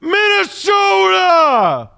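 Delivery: "Minnesota" slow, high, shouted, drawn-out Minnesota accent. Shown as a demonstration. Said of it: "You gotta say Minnesota in a Minnesota accent".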